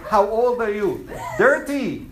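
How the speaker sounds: mock Indian accent. Shown as a demonstration. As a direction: joke exchange in an Indian accent. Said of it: "the Indian accent is".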